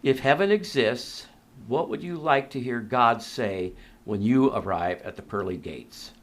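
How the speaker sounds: measured question, sinking at the end; unhurried, letting each phrase land; slow, deliberate reading. Real, not acted. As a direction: read it out slowly and deliberately. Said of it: "I'm gonna read this slowly here".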